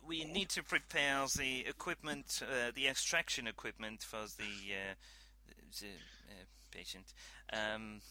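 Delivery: lightly voiced French scientist, hesitant; English with a mild French accent, halting. Scientist stalling the captain over equipment, light French accent.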